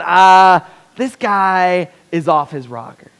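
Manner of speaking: loud, incredulous outburst at a crazy general; exasperated soldier. Retold or imitated. Soldier at a war meeting scoffs at his general, loud and incredulous. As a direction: scoff loudly at an insane plan. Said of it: "I'm going".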